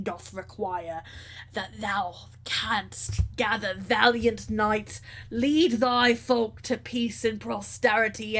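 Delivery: slow, grand archaic king throwing down a challenge; a lightly voiced proud old king, measured and commanding; regal king. King challenging the stranger for his throne, lightly voiced and proud.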